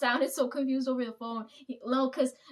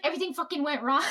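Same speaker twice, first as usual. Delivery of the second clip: laughing complaint; 3 semitones higher than usual. Retold or imitated. Self-quote, laughing at cake fiasco.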